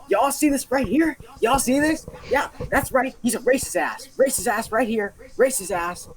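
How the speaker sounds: put-on high-pitched drunk ranting at everyone; mock yell. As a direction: play a drunk woman yelling from a table. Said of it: "screaming at the top of her lungs".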